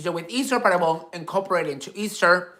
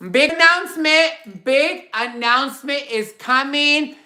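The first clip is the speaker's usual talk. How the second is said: excited hype; 5 semitones higher than usual. Real, not acted. Hyping an announcement to viewers.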